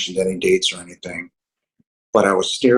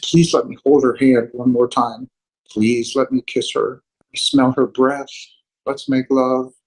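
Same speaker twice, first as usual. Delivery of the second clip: higher-pitched, heartfelt plea; emotional pleading; 4 semitones higher than usual. Retold or imitated. Retelling a deathbed prayer for the beloved, pleading with emotion. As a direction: plead as emotion starts to rise. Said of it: "I'm gonna get emotional".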